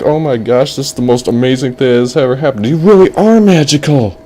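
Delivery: rushed awe rising to a high finish; amazed boy. Acted. Boy marvels at the magic, gushing amazement. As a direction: gush like an astonished kid. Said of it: "And he was like".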